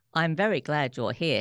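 talking through a mouthful of food; words round a bite of chicken; mouth full. Acted. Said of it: "speaking with his mouth full".

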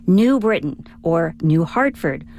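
"New" punched in each place name; wrong-syllable stress. Shown as a demonstration. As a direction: stress NEW in "New Britain" and "New Hartford". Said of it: "you'd never say".

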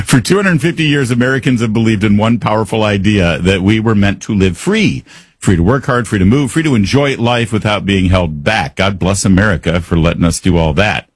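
polished, rolling sponsor read. Acted. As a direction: pitch the product with patriotic build-up. Reads a sponsor ad.

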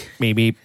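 monotone robot beeps. Pretend. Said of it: "It'll be all monotone".

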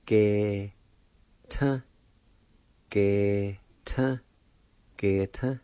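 Ge-ta with a rising end, said three times; pronunciation demo. Shown as a demonstration. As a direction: repeat Ge-ta slowly and clearly. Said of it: "it's pronounced like this".

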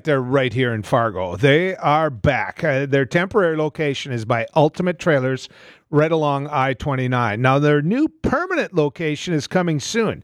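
emphatic sponsor pitch with stretched phrases; radio ad read. Real, not acted. Host telling listeners a recreation outlet is back, ad read. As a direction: sell it like a local radio host.

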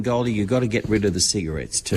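hollering advice at her in jest; mock shout. Teasing advice to Goldie.

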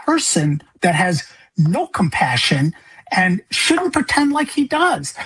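high, strained outcry at the governor; a grieving father calling out the governor, pleading and accusing; impassioned plea. Retold or imitated. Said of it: "to at least voice, like".

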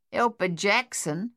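slow, mildly amused question. Acted. Old woman mocking Sonia's request, mildly amused and slow. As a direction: savour the irony, lightly. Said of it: "The old woman sounded amused".

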